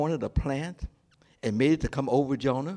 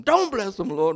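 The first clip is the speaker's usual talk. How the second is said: protesting plea; 4 semitones higher, 4 dB louder than usual. Acted. Believer protests to God.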